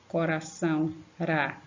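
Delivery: "Coração, ra" with a light tapped R; a gentle tongue flick on the R in "Coração"; weak R. Shown as a demonstration. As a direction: isolate "ra" from "Coração" without force. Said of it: "Som fraco é isso".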